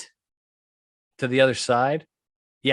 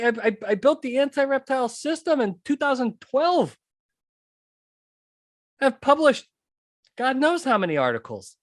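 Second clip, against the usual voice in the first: high-pitched, worked-up boasting; he's beside himself with disbelief; indignant rant; 12 semitones higher than usual. Real, not acted. Indignant rant about his work.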